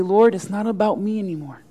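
humble surrender. Acted. Willing believer praying to the Lord, humbly surrendering. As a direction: hand it over to God quietly.

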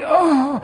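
imitated groan of getting up; mock groan. Pastor mimicking himself getting out of bed, mock groan. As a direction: groan briefly as if stiff, playfully.

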